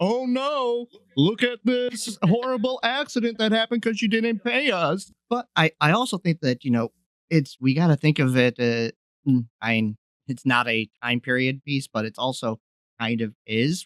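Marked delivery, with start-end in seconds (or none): 0.0-5.1 mock shrill, very high street holler. Retelling what the axes said in the street: imitating someone shouting. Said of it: "street shouting".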